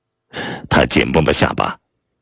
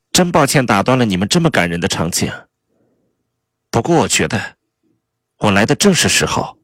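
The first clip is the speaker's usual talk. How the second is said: higher-pitched voice of a sarcastic, fuming spouse; angry Kay; 7 semitones higher than usual. A narrator's reading. Furious spouse interrupting a tender scene, higher and sarcastic. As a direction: play Kay's mock apology with seething sarcasm. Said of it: "面对他怒火中烧的眼神儿".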